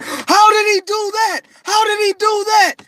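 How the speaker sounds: high, loud astonished question; amazed onlookers. Retold or imitated. Bystanders seeing a shot man get up, astonished. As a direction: gape in astonishment.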